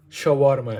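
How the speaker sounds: "shawarma" said the native way, with a clear r; accent of origin. Shown as a demonstration. Cook showing a name in its native accent, careful native pronunciation. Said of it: "with the accent of their origin".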